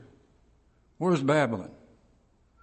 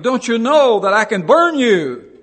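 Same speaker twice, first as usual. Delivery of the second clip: loud, higher furious threat; angry yell; 8 semitones higher, 11 dB louder than usual. Retold or imitated. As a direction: roar the threat at the prisoner. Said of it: "He yelled back".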